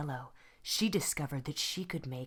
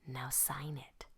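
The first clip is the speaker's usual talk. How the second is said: whispered, much softer; quiet; 3 semitones lower, 9 dB quieter than usual. Acted. Teacher quietly asks the girl to sign, whispering. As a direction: hush it, a gentle instruction. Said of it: "quietly said".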